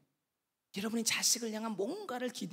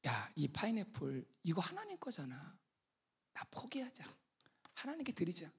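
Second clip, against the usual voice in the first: very soft, thinking to himself; hushed surrender, fading almost to a whisper; quiet inner resolve; 2 semitones lower, 11 dB quieter than usual. Retold or imitated. Missionary gives the pineapple to God, hushed resignation. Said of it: "가만 생각해 보니까".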